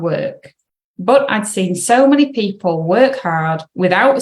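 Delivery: measured read-aloud voice with pauses between sentences. Real, not acted. Coach reading an article to clients, careful read-aloud. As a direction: read it out carefully for listeners to follow.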